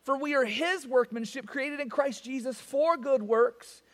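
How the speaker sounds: slow, solemn reading of the verses; scripture reading. Acted. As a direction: read the Word with reverence.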